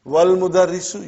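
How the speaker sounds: wal mudarrisu linked, no glottal stop after w; hamza dropped. Shown as a demonstration. Teacher showing students hamzatul wasl, hamza dropped. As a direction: run "wal" straight into mudarrisu as one syllable. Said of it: "you did not pronounce hamza".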